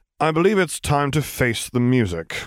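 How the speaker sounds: sighing voice, a touch high in pitch. Reading Piet's line to the commander as he steps out, with a sigh. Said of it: "he said with a sigh".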